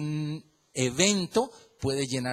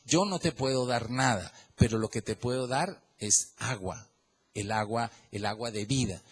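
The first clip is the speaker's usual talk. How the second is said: softer and softer, tender offer of water; gentle offer; 4 semitones lower, 4 dB quieter than usual. Acted. Pastor speaking to a broken family, soft tender offer. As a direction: hand it over like a gift, fading to a hush.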